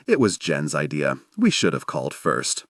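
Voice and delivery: lightly voiced sheepish apology; apologetic. A narrator's reading. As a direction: say it low, a touch sorry. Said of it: "he apologizes".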